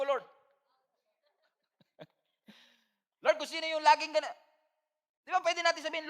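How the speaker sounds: animated Tagalog sermon delivery; lively pastor preaching. Acted. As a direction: preach it with energy to the church.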